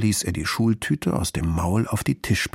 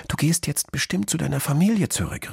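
calling out; 7 semitones higher than usual. A narrator's reading. Girl guessing the fox is heading home, calling after him. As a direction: call after a friend in a girl's high voice. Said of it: "rief sie".

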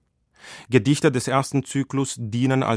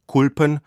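Kulpen set apart, higher and louder; word held up; 4 semitones higher, 4 dB louder than usual. Shown as a demonstration. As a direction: hold up the word Kulpen as a quoted term. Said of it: "das ist eine plattdeutsche Variante". (Kulpen hervorgehoben, höher und lauter)

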